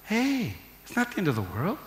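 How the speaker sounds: normal talking voice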